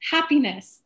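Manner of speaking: high, slow, hammed-up dismay; mock disappointment. Coach imitating Kelly, hammed-up disappointment. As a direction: whine about being let down. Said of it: "She's like".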